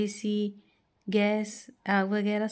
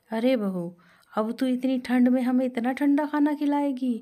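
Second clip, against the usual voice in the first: taunting mother-in-law. Acted. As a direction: scold the bride for cold food with scorn. Mother-in-law taunts over cold food. (ताना मारती गुस्साई सास)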